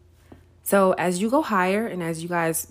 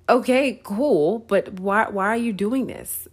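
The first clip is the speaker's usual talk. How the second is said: a bit higher and louder, exasperated demand; mock yell back; 3 semitones higher, 3 dB louder than usual. Alone in the shaking elevator, exasperated yell at God. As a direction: push back at God, half joking. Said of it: "you yell back at God".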